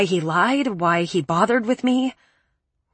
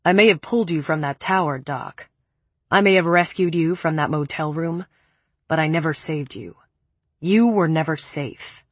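a hint of a low, cold man; cool, lower man's voice; lightly lower male voice; 3 semitones lower than usual. Preppy's cold voice.

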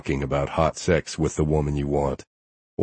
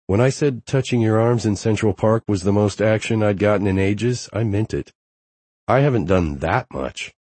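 lightly higher woman's voice; playful young woman, slightly raised pitch; Harper; 5 semitones higher than usual. Acted. Harper voiced by male narrator.

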